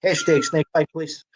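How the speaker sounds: slow, laughing through the words. Real, not acted. Guest laughing at the host's code name joke, laughing slowly.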